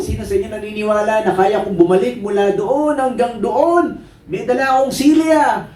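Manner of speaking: rally the audience like a performer; tightrope walker showman. Acted. Tightrope walker asking crowd for belief, showman's high call.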